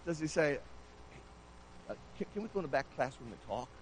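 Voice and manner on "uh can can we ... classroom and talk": fast, much softer mock request, hushed; the official sneaking a private word with Jesus, hushed and fast; hushed aside. Imagined quiet request to Jesus.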